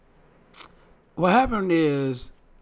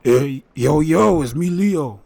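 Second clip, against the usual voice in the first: loud New York hype greeting; a loud hint of Leo's voice; 6 dB louder, slower than usual. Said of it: "Can you do Leo voice?".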